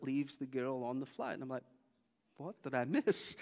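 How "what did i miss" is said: slow, drawn-out baffled question; startled bewilderment. Retold or imitated. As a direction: stretch it out like you just woke up to chaos. Acts out waking up mid-commotion.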